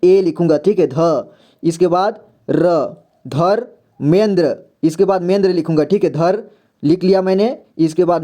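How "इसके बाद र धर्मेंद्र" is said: धर्मेंद्र said slowly, every syllable full; slow syllable demo. Shown as a demonstration. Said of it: "ध का उच्चारण पूरी तरह से हो रहा है". (धर्मेंद्र धीरे-धीरे पूरा उच्चारण)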